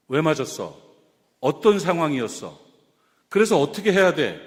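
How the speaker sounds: low-pitched, matter-of-fact interrogation; analytical questioning. Acted. Gyeongsang friend questioning a beaten friend, analytical and probing. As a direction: probe for the facts, one measured question at a time. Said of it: "따지잖아요. 분석하잖아요".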